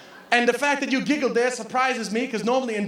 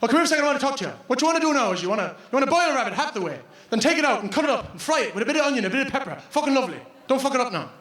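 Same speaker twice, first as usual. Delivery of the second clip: chatty cooking advice; much faster than usual. Retold or imitated. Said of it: "Everyone I met".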